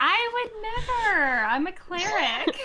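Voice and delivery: mock indignation. Mock-offended reply to joke.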